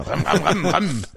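high revving ram ram; moped engine noise. Pretend. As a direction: rev it like a moped. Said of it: "fahr ich noch mit dem Moped".

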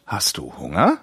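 slow, simple question with big rising ends; demonstrated parent-to-baby speech; slow baby talk. Shown as a demonstration. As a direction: talk slowly to a small child, lifting each phrase. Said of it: "was langsamer sprechen und so".

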